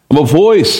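"voice" leaned on, falling; emphatic "voice" at the end; stress on VOICE. Shown as a demonstration. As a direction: land firmly on "voice".

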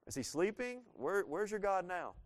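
mocking, high-pitched taunting questions; Elijah's smack talk. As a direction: taunt them, rising high, then drawing it out. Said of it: "I like this little smack talk".

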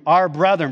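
"Our brethren" said with weight; emphatic. Shown as a demonstration. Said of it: "very emphatic".

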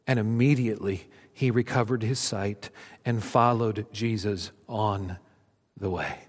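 storytelling read from the pulpit, rising then hushed; dramatic scripture reading. Acted. Pastor reads Mark to his congregation, dramatic then hushed. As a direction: read the Gospel like a story, letting it settle at the end.

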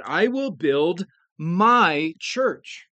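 slow, MY leaned on in "I will build my church"; stress on my. Retold or imitated. Preacher quoting Jesus, slow with MY stressed. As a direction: underline "my" as Jesus's own church. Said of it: "is given particular stress".

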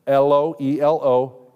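slow, deliberate spelling of L O E L O; spelled out letter by letter. Shown as a demonstration. Teacher spelling the name for the class, slow and deliberate. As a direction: spell L O E L O out slowly, one letter at a time. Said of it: "capital E L O H I M".

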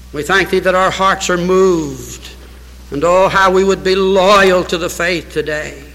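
solemn prayer voice that swells in places and fades at amen; pastoral prayer. Acted. Pastor leading his church in closing prayer, solemn. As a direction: pray over the congregation, earnest and grave.

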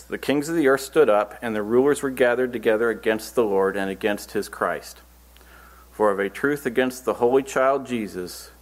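deliberate Bible reading, slightly lifted; scripture reading. Acted. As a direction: read the verses out to a congregation. Reads scripture aloud.

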